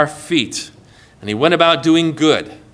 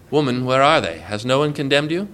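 low, gentle questioning; tender; 5 semitones lower, 4 dB quieter than usual. Acted. Jesus to the woman caught in adultery, tender. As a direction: ask softly, without accusing.

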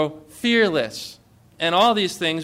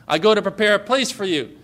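voicing Jesus's promise; 4 semitones higher, 4 dB louder, faster than usual. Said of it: "Jesus says".

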